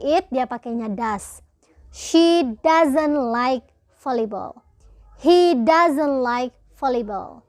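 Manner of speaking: slow, clear model sentences for students; teacher modelling English slowly; slow example reading. Shown as a demonstration. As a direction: read each example slowly so the class can follow. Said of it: "For example".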